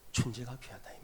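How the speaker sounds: hushed, breathy whisper of the key truth. Real, not acted. Preacher whispering the sermon's main truth. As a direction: drop to a whisper on the point.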